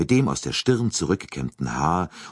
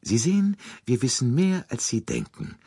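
mildly friendly, lifted higher then dropping; 7 semitones higher than usual. A narrator's reading. Detective revealing his knowledge to the colonel, with mild friendliness. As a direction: start high and amiable, settle down at the end. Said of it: "nickte Poirot freundlich".

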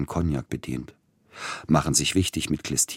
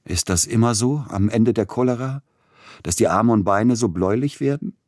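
tormented question; 6 semitones higher, 5 dB louder than usual. A narrator's reading. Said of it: "hin und her geworfen von Krämpfen".

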